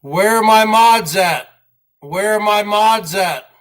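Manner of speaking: slow, loud call for the mods. Real, not acted. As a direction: call out across the chat, drawn out. Calling out for absent moderators.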